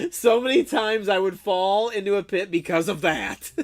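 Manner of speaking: high, loud, laughing exclamation. Real, not acted. Streamer agreeing with chat about pits, laughing complaint. Laughing over shared game trouble.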